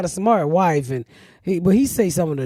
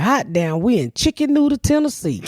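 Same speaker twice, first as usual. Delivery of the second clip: dumb brother reading. Retold or imitated. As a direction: sound proud of reading it wrong. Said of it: "that nigga read that sign and said".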